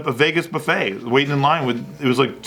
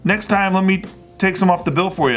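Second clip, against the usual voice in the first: retold eager guy; 6 semitones higher than usual. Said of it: "he's like".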